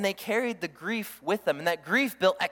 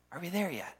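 put-on fading kid whine; 2 semitones lower, 7 dB quieter than usual. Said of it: "sound like the kindergartner on the road trip".

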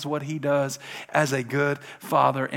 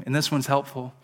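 usual speaking voice

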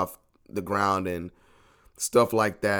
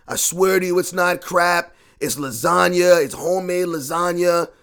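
insistent reassurance; 7 semitones higher, 6 dB louder, slower than usual. Retold or imitated. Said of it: "they're telling me every single week".

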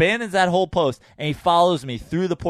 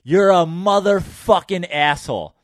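slow, drawn-out mock yell; retold scream; 3 semitones higher, slower than usual. Man retelling his outburst at a cop, half-strength scream. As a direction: stretch out the insult, only mildly raised. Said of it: "I scream in his face".

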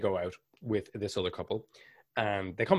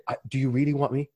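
mock pleading guest; 5 semitones higher, faster than usual.

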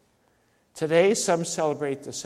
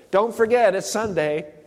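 mock breezy nudge, higher and louder; casual reminder; 5 semitones higher, 6 dB louder than usual. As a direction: toss it off like a light memo. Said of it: "remember doesn't mean to recollect".

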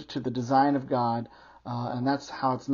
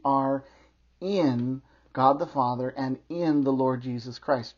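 "in" set off by a pause; pause, then lean on "in"; stress on IN. Real, not acted. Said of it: "I emphasize the word "in".

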